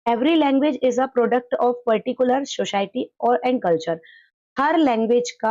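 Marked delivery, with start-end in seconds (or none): 0.1-4.0 slow, deliberate reading of an English definition; slow dictation reading. Acted. Teacher reading a textbook definition aloud to the class, slowly. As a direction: read it word by word for students to copy down.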